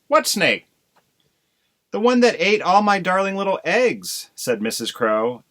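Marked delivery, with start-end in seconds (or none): 0.1-0.7 what punched, high and loud, falling; alarmed question. Acted. Husband demands explanation. 1.9-4.3 high, loud, tearful wail; a mother crow bursting into tears. Acted. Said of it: "burst into tears".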